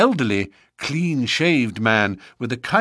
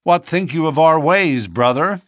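taunting ruffian; 7 semitones higher, 6 dB louder than usual. A narrator's reading. Baldwin taunting McMurdo.

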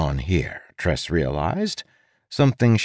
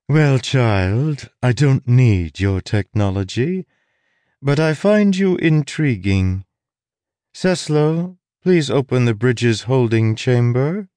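higher, imperious sorceress; 4 semitones higher than usual. Acted. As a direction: command like a bored queen. Sorceress speaks.

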